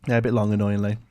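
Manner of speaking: talking while eating crisps; words around a mouthful of crisps; crunching chips. Real, not acted. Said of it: "Excuse me again for eating crisps".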